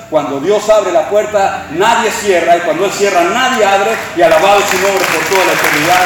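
preaching at full force. Acted. Pastor declaring God's victory to the congregation, preaching at full force. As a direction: proclaim it to the whole church, rising in force.

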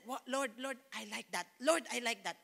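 softly, in hushed delight; murmured to the Lord in awe; hushed wonder. Retold or imitated. Young Christian telling the Lord she wants the gift, hushed. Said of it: "And I said".

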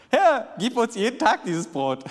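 high, loud, excited request; eager crowd plea. Acted. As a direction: call out keenly like a hungry crowd. Crowd eagerly asks Jesus for bread. (begeistert fordernd)

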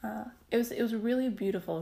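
voz emocionada y al borde del llanto; teary-eyed. Real, not acted. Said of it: "sorry, I'm getting a little teary-eyed".

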